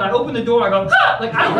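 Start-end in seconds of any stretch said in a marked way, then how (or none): 0.9-1.2 startled yelp. Retold or imitated. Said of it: "it made me make a sound".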